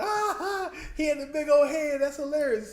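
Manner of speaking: high, laughing mock voice; laughing impression. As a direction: cackle it out in a high voice. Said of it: "he went up like".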